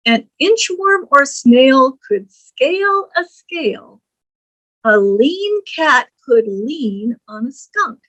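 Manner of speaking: put-on reading a poem to children. Shown as a demonstration. Teacher reading the homonym poem to the class. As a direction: lilt through the rhyme for young listeners.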